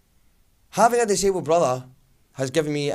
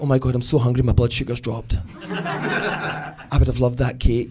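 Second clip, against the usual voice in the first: hammed-up moaning, slowing at the end; mock self-pity; 3 semitones lower than usual. To Marion after she eats the cake, hammed-up self-pity. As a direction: whine like a suffering martyr.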